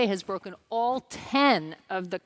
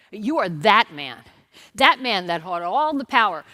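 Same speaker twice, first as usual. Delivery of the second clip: stern rebuke; 5 dB louder than usual. Acted. Prophet Nathan calling out King David, loud stern rebuke. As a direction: hammer the charge home.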